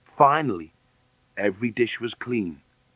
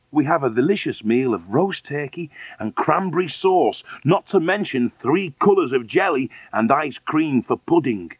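lilting, slightly raised sales pitch; tempting; 5 semitones higher than usual. Acted. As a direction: dangle each treat enticingly. Man tempts hungry Deedy.

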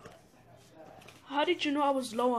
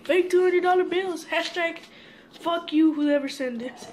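angry shout; 4 semitones higher, 5 dB louder than usual. Real, not acted. Angry sign-off at the sender.

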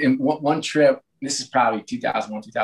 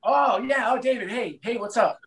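sheepish innocent greeting; 10 semitones higher, 4 dB quieter than usual. Retold or imitated. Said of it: "And I was like".

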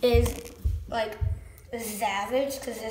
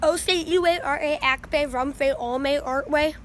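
mock Latin gibberish; 2 semitones higher than usual. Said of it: "That was Big Latin".

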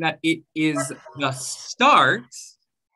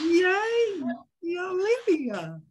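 smooth onset; 11 semitones higher, much slower than usual. Shown as a demonstration. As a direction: let the voice start gently. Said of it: "with a smooth reply".

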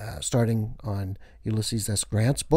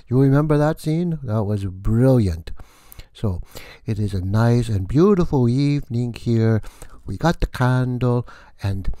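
vampire count voice; 5 dB louder than usual. Acted. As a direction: play the theatrical vampire host welcoming guests. Count voice continues.

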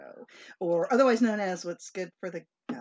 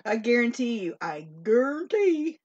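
Justin Wilson Creole; 5 semitones higher, 6 dB louder than usual. Retold or imitated. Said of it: "as Justin, what's his name would say? The Creole".

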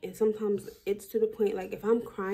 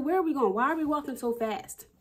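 breathless alarm; 6 semitones higher than usual. Retold or imitated. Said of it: "I literally told her".

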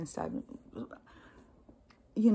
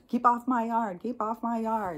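mock neighbor warning, pitched up; territorial neighbor; 5 semitones higher than usual. Neighbors guarding their unfenced yard, mock scolding. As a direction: lightly imitate a fussy neighbor calling out.

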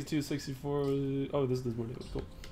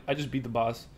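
deadpan; 6 semitones lower, 5 dB quieter than usual. Retold or imitated. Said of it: "Like, just deadpan".

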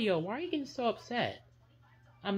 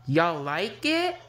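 loud slow call; 9 dB louder, slower than usual. Acted. Kids puppet show shouting to viewers.

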